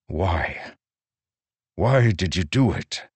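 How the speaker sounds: hurt and insistent asking; pained demand. A narrator's reading. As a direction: press him, wounded.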